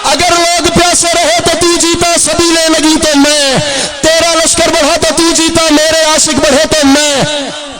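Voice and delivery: full-voiced ringing take of लोग प्यासे रहे तो तू जीता; full preaching. Shown as a demonstration. Preacher delivering the line at full force, ringing. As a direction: proclaim it to the whole crowd. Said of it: "ऐसे नहीं".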